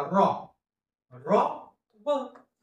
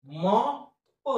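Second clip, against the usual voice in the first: stretched out sound by sound; slow phonics blend; 2 semitones higher, much slower than usual. Shown as a demonstration. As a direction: draw each sound out slowly, then join. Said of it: "पुढचा शब्द त्याच पद्धतीने".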